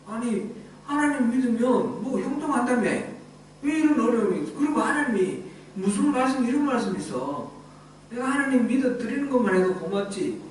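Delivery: a lightly voiced indignant grumble; complaining believer. A disappointed believer grumbling at God, mildly indignant. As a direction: sulk back at God, a hint of resentment. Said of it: "그러면서 하나님한테 대적할 겁니다".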